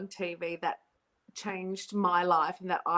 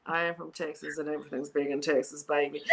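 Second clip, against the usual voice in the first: Texas guy; 6 semitones lower, 3 dB quieter than usual. Acted. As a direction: boom it out like a cocky Texan. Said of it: "He's like".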